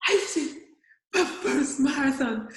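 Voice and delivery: choked with joy at finishing; laughing through tears. Real, not acted. Woman recalling her first marathon finish, laughing through tears.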